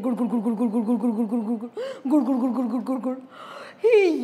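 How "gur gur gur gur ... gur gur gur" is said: gurgle like a rumbling tummy. Acted. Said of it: "his tummy was rumbling".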